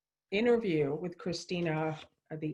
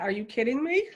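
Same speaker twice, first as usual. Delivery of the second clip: higher, incredulous Are you kidding me; half-laughing stunned question; wife hearing the show was lost; retold disbelief; 5 semitones higher, faster than usual. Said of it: "I said it just like".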